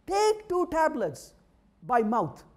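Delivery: label reading. Retold or imitated. Reading the bottle label aloud.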